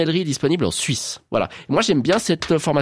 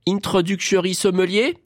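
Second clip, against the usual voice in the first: higher, rising mock English accent; put-on English accent; 3 semitones higher than usual. Shown as a demonstration. Presenter listing exam levels, put-on English accent. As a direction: lay on a rough English accent.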